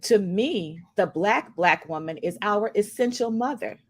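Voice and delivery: slow, deliberate recitation with long pauses; quote reading. Acted. Podcast host reading Alice Walker's quote on colorism, slow recitation. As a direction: let each phrase of the quote land.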